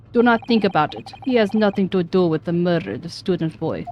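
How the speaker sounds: put-on curt Russian accent; dismissive Russian sailor. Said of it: "I'm so bad at this Russian accent".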